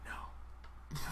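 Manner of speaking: flat, deadpan no; monotone reply. Retold or imitated. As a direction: answer with no inflection. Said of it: "that little monotone response".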